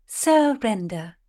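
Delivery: drawn-out scornful word; mocking. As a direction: sneer the word slowly.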